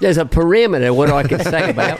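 rough attempt at an Australian accent; lightly voiced Australian comic. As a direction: play it with an imperfect Australian accent. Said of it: "Sorry, it's not my best accent".

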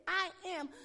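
proclaimed. Acted. Preacher proclaiming Jesus' words to the church. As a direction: ring it out with power. Power of God released, proclaimed.

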